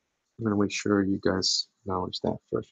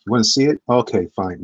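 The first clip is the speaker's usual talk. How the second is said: mock exasperated; 9 dB louder than usual. Mock giving in to chat.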